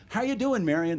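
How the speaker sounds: high, chummy hello to a regular; a lightly voiced deli man greeting a customer; lightly voiced cheerful butcher; friendly shopkeeper greeting. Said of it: "and he'd go".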